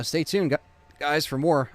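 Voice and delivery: hiccup cuts off the word; stumbling over hiccups. Real, not acted. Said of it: "I have the hiccups, so I can't even talk".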